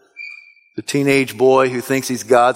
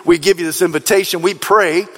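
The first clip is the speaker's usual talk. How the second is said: closing prayer. Acted. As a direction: lead the congregation gently to God. Closing prayer over music.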